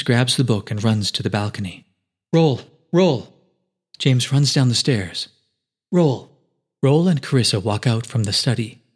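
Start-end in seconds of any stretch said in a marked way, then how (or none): 2.3-3.3 calling out. A narrator's reading. James calling for Roll. 5.9-6.4 calling out. A narrator's reading. James calling for Roll.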